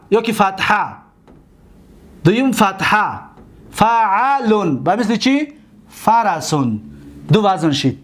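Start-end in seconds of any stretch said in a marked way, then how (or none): 3.7-4.8 فعلون said slowly with a long middle vowel; drawn-out demonstration. Shown as a demonstration. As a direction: stretch فعلون out for the class. Teacher models pattern by syllables.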